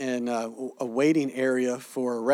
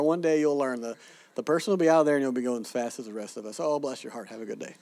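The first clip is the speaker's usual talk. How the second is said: patronizing coo. Retold or imitated. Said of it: "but Americans go".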